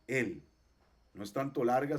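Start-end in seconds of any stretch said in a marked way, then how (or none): 0.1-0.4 el said alone with a firm E; strong E. Shown as a demonstration. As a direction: give "el" a firm, full E.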